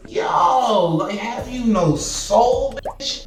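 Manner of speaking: outraged disbelief. Real, not acted. Outraged at the operator.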